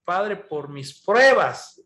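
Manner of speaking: slow, put-on religious voice; pious-sounding praise. Believer hiding his pain behind a slow, pious prayer. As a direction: lay the false piety on slowly. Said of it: "Se escucha muy bonito, muy religioso".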